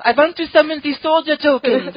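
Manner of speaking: high, loud mock babushka character; Elspeth in a babushka. Host imagining Elspeth in a babushka at an event, hammed-up high voice. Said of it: "like, Elspeth wearing a babushka".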